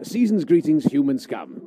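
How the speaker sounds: gruff warlike alien greeting; alien soldier voice. Acted. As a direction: bark it like a hostile alien trooper. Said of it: "Reverted to type there".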